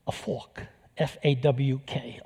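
fork said as New York fawk, no r and an open aw; a thick New York fawk; New York accent. Shown as a demonstration. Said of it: "this whole New York accent comes out".

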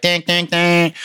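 ding, ding, ding as a sound effect; imitated ding. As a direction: mimic a repeated ding. Imitates noise in drive-thru line.

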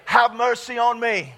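firm, loud prompt; leading a call-and-response. Shown as a demonstration. Preacher leading the congregation to repeat, firm and loud. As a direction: say it clearly and strongly for them to echo. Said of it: "I want you to say that with me".

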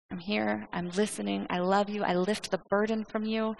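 soft, tender reassurance; hushed, steady comfort; divine embrace. Acted. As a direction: speak gently as God comforting a sufferer. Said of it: "God's response is this divine embrace".

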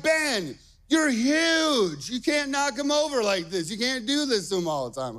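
high-pitched exasperated scolding; mad dad, retold. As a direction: act out telling off a child in exasperation. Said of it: "Me, I get mad at".

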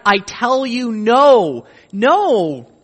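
Jesus insisting and mocking the wrong idea, loud and high; emphatic Jesus. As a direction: insist on the no, then mock the wrong thinking. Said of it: "it's emphatic".

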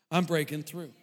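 hushed repeat. Retold or imitated. Repeats his quiet mantra.

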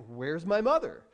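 a hint of a searching hatchling; baby bird. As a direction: wonder aloud like a lost chick. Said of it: "the baby bird is sitting there in the nest by himself saying".

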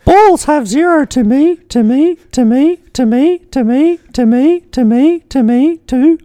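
very high, loud monotone bot falsetto; machine-like repeating high mock-female voice; Alice voice. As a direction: chant it slowly on one piercingly high note. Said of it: "I better do an Alice voice".

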